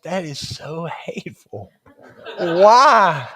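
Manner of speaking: laughing, teasing protest at God; half-laughing mock complaint; mock outrage. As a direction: playfully accuse the Lord, laughing.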